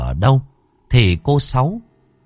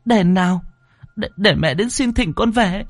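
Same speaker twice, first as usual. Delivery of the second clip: high, rushed pleading mother on the verge of sobs; crying out tearfully; 11 semitones higher than usual. Acted. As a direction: call to the ghost of her son, begging. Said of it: "Cô Thao kêu lên". (tiếng mẹ gọi con khóc lóc, cao và dồn dập)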